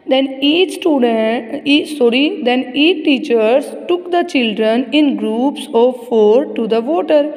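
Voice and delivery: very slow, word-by-word reading; measured classroom reading with drawn-out words; textbook read-aloud. Acted. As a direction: read it out slowly for young pupils. Reads textbook aloud slowly.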